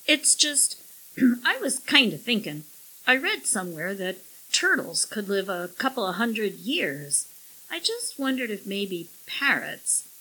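unsure, halting man's voice; hedging, searching for words; hesitant husband. Acted. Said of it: "his voice trailed off".

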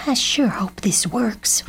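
hope aloud under your breath; whisper. A narrator's reading. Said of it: "whispered Mamo".

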